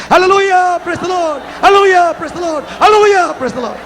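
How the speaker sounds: high, ringing hallelujah shout; rallying cry of praise, dropping at each end. Real, not acted. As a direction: lead the crowd in a big shout. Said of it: "tayo sisigaw ng hallelujah".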